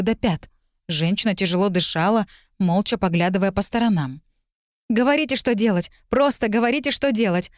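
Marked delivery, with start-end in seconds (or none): 4.9-7.5 begging. Acted. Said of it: "снова взмолилась я".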